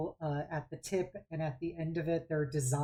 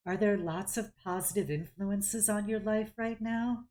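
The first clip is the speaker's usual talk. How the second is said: calm druid aunt; 3 semitones higher than usual. Acted. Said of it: "and goes".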